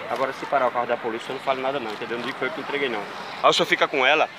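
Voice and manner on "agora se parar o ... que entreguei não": hushed conspiratorial. Pretend. Prankster hints at police secretly.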